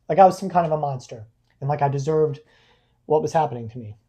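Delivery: real hurt in the voice; choked up, pausing to gather yourself; low and tearful, halting; holding back tears. Real, not acted. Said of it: "I'm crying more about it now".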